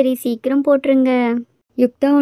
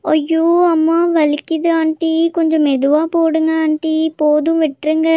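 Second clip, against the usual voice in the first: pained plea; 5 semitones higher than usual. Acted. Child gets injection, in pain.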